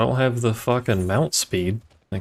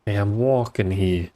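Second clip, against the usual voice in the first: put-on Boston accent. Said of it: "with a shitty Bostonian accent".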